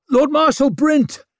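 high, loud surprised call. A narrator's reading. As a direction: call out across the room. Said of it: "called Brock".

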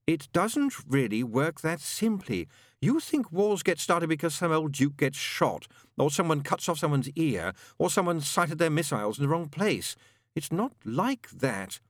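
leaden, pessimistic explaining; fatalistic gloom. A narrator's reading. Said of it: "his voice leaden with fatalistic gloom".

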